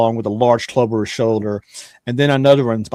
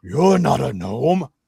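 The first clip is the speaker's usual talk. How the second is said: put-on big giant's voice. Narrating a game, the speaker voices a giant who catches a player: Gron the giant's voice. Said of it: "the giant looks down. He's like".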